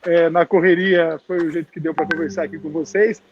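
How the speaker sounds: muffled behind a mask; through a face mask. Real, not acted. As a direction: speak through a cloth mask. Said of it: "eu tô de máscara".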